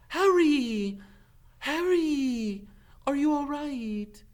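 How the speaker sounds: loud, high frantic call. Acted. Hermione running toward Harry, calling loudly. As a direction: shout his name across the path.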